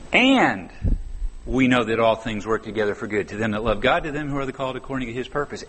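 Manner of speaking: And stretched out, set apart by a pause before the rest; stress on AND. Shown as a demonstration. Preacher shows the verse by stressing And. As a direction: lean hard on And, then read on. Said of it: "put the emphasis on a different syllable".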